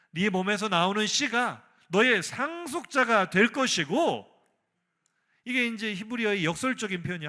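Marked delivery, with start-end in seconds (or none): 0.1-4.2 loud, slow, higher proclamation; emphatic promise. Acted. Preacher as God promising Abraham an heir, emphatic. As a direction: declare it with weight on each phrase.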